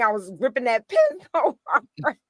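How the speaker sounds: laughing. Real, not acted. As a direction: break up laughing at your own story. Laughs at own past anger.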